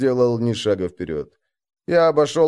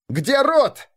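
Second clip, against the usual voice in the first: a much higher, jumpy blurt; nervous blurt; 12 semitones higher than usual. Acted. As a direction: blurt it out in a panic. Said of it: "нервно выпалил юнец". (нервно выпалить, высоко)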